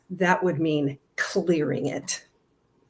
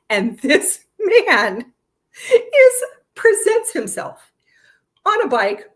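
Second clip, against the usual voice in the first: much higher and louder, slow, laughing; amazed emphasis; 9 semitones higher, 8 dB louder, slower than usual. Real, not acted. Marveling to viewers about the man on the bike, amazed. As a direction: stretch it out in delighted disbelief.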